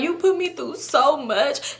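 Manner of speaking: slow, mildly tearful retelling; a touch of crying, kept understandable; toned-down crying voice. Retold or imitated. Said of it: "it's still me crying voice".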